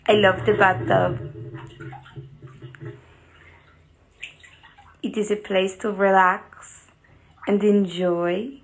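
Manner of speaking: careful, mock French-accented English; lightly hammed-up French accent; put-on French accent. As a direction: speak English like a French speaker, measured and deliberate. Put-on foreign accent bit in bathtub.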